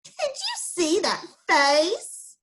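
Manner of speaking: high, slow mocking poodle voice; drawn-out prissy mockery. Pampered poodle laughing at Alfred's face, high and slow. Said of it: "A pampered poodle chuckled".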